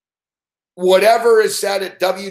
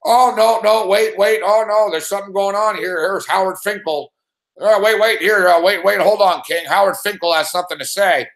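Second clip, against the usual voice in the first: announcer; 2 semitones higher than usual. Retold or imitated. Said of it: "wrestling style".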